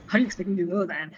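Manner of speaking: quick, snippy fairy line; mock rude fairy, fast; rude, dismissive. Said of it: "which means".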